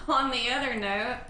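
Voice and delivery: giggling through the words; words breaking into giggles; laughing. Real, not acted. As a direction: laugh as she changes topic. Co-host laughing off topic.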